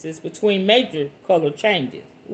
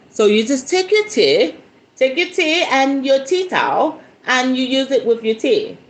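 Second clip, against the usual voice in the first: put-on light playful British accent, a bit higher; mock British accent; 6 semitones higher than usual. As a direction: toss it off in a jokey British accent. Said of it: "That's my British accent".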